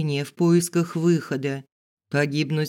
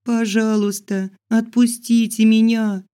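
whimpering; 7 semitones higher, 6 dB louder than usual. Acted. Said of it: "заскулила тихо, как щенок".

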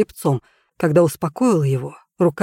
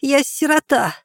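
put-on little girl voice; 3 semitones higher, slower than usual. A narrator's reading.

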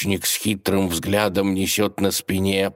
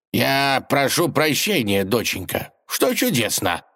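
yawning; 6 semitones higher than usual. A narrator's reading. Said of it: "зевая во весь рот".

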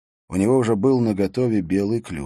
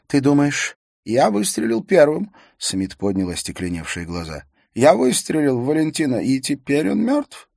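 high, tense voice of a shocked man; shaken man voice; 9 semitones higher, 7 dB louder than usual. A narrator's reading. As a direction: ask in disbelief, voice pitched up.

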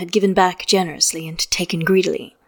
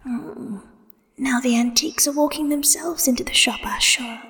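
amused hushed whisper, pitched higher; pleased whisper; 5 semitones higher, 5 dB quieter than usual. A narrator's reading. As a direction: savor the joke under your breath. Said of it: "with a pleased little laugh".

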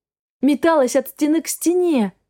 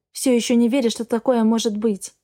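ordinary delivery, nothing marked

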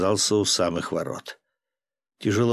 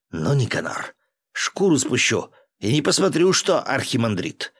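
threat; 3 semitones higher than usual. Acted. Threatening the archimandrite.

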